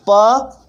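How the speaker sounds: "प" stretched slowly into "पा"; drawn-out vowel. Shown as a demonstration. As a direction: hold "प" long with an "आ" sound. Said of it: "आ का sound आ रहा है ना".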